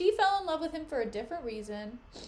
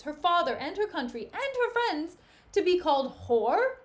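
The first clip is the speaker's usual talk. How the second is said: indignant; 2 semitones higher, 6 dB louder than usual. Acted. Emilia's indignant speech.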